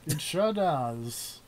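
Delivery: put-on slow old newsreel announcer voice. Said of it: "It's my newsreel voice".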